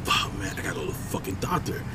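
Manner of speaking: low, soft retold groaning resignation; feeling sick. Sick hiker on the couch to himself, mildly miserable.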